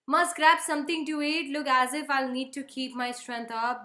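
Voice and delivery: loud, slow, wry aside; slow wry stage line; mock weary. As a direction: say it like bracing for battle. Son heads off to eat.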